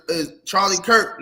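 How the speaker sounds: "Charlie Kirk" said slowly and firmly, stressing "Kirk"; slow, careful correction of "Charlie Kirk"; corrected name. Shown as a demonstration. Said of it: "not Kirk".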